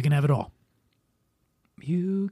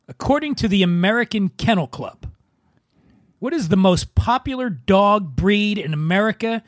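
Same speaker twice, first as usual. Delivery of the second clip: quiz host. Acted. Quiz host reads question.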